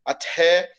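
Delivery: "Até" with a puff after the T; aspiration demo. Shown as a demonstration. Teacher admits the aspiration is imperfect, aspirated T demonstration. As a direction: breathe out on the T of "Até". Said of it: "não tô pronunciando também a aspiração".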